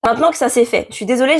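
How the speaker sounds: hoarse from a cold. Real, not acted. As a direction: speak with a hoarse, sick voice. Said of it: "j'ai la voix cassée".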